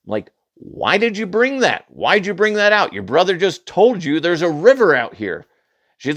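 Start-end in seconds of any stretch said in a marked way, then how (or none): 0.6-5.5 higher-pitched scolding, retold; mock-exasperated dad telling off his child; exasperated parent. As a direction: lose patience with a careless kid. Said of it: "I can't bite my tongue anymore".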